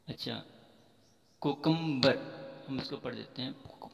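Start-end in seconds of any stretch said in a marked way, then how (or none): 1.4-2.2 "कोकम्बर" starting with "ko", loud; wrong pronunciation. Shown as a demonstration. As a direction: say "कोकम्बर" as ko-KUM-bar. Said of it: "कोकम्बर गलत है". ("कोकम्बर", शुरू में "को")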